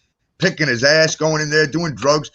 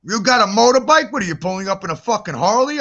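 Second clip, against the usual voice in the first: mocking disbelief; 4 semitones higher than usual. Mocking the scooter ride.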